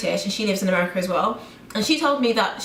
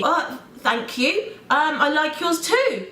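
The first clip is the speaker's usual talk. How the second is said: awkward polite thanks; 5 semitones higher, slower than usual. Acted.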